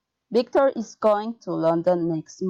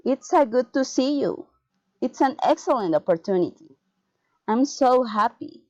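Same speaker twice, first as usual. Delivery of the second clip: exclamations that drop at the end, as on "happy"; falling intonation; 3 semitones higher than usual. Shown as a demonstration. Teacher models exclamatory sentences, falling intonation to "happy". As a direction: pitch starts up and falls through "opportunity". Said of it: "falling intonation".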